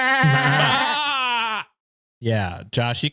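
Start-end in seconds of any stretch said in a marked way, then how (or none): 0.0-1.7 sudden high goat cry; goat bleat. Pretend. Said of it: "everybody give their best goat impression".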